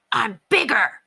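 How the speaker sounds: put-on dog voice, boasting at a rival; Ranger. A narrator's reading. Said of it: "growled Ranger".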